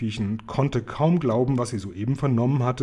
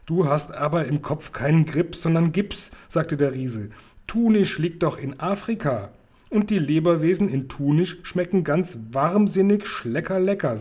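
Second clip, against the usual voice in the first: louder, higher giant, relishing the words; teasing giant; 4 semitones higher, 3 dB louder than usual. Acted. Giant teasing Sophiechen, loud and gleeful. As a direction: smack the lips over schleckerlecker.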